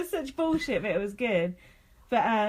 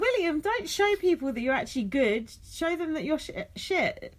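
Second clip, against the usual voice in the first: put-on higher, half-hearted French accent; 5 semitones higher than usual. Co-host retelling advice to William, attempted French accent. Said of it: "I like your French accent".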